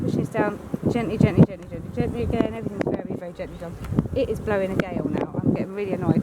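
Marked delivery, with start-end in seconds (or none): 0.0-3.8 soft coaxing. Real, not acted. Beekeeper hushing his bees while pressing a frame down, soft and fading. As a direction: voice sinking to almost nothing as he eases the frame down.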